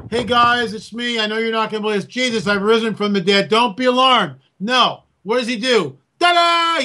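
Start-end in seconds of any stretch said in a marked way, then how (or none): 0.1-4.4 lightly voiced, slightly raised reassurance; gentle announcing Jesus. Joking how Jesus could have warned disciples, mock reassuring. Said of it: "he could have just gone". 6.2-6.8 high, drawn-out "ta-da"; showy reveal. Retold or imitated. Joking that Jesus just shows up, mock triumphant. Acting Jesus's surprise entrance.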